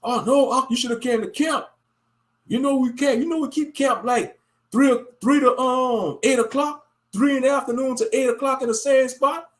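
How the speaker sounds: mocking camp member. Mocking a camp brother urging him to come to camp.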